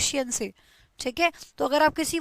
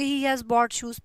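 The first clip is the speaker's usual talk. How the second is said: slow dictation; 2 semitones lower, much slower than usual. Shown as a demonstration. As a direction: read it word by word for the class. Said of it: "dictating example sentence". (बहुत धीरे, ज़ोर से लिखवाना)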